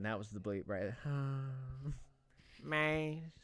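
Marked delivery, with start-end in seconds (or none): 2.6-3.3 mock moan. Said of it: "I just did one".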